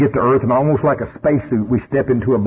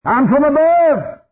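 firm reply; 10 semitones higher, slower than usual. Acted. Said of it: "And you're going".

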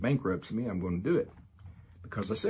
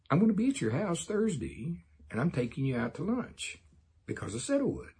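higher-pitched, insistent guarantee; emphatic promise; 8 semitones higher than usual. Shown as a demonstration. Teacher promising a listener a lunch on Thursday, insistent. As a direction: promise it firmly, lifted in pitch.

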